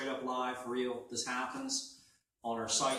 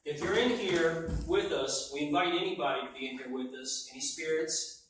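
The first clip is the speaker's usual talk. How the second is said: talking to a ghost; 2 semitones higher, 4 dB louder than usual. Real, not acted. EVP session, calling out to spirits.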